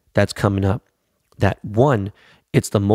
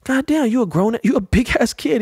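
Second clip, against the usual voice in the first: squeaky, much higher put-on voice, mocking himself; mock high-pitched voice. Groggy dad to son at dawn, squeaky high mock voice. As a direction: play it up, voice jumps way up high. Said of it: "I'm like".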